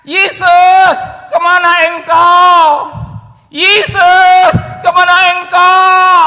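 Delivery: desperate shout, high and loud, drawn out slowly; crying out. Acted. Lost man shouting for Jesus on the beach. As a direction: call out for Jesus in anguish. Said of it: "Dia berteriak".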